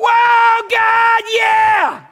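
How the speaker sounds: joyful cry, very loud and high pitched. Showing the congregation what a shout of praise sounds like: shout of praise. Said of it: "You haven't shout with praise to the God".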